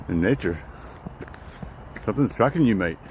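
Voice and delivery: put-on amateur Aussie accent, lifting on the warning; rough Australian impersonation; attempted Australian accent. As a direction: warn a mate in a mock Australian accent. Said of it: "too early for Australian accents".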